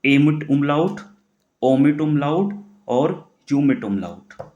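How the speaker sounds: very slow, dictating each letter name; slow classroom dictation; slow spelled names. Shown as a demonstration. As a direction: dictate ओमिट umlaut और यूमिट umlaut slowly. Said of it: "क्या पढ़ सकते हो आप लोग".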